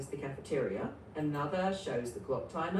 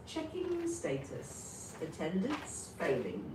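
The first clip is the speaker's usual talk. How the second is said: robot voice; 5 dB quieter than usual. Acted. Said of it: "the A I robot says".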